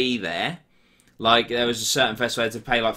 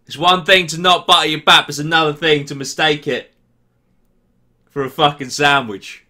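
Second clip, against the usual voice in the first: loud, high, worked-up rant; heated rant; 4 semitones higher, 7 dB louder than usual. Real, not acted. Fuming at a viewer over unbuttered baps, loud and high. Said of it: "I'm getting a bit heated here".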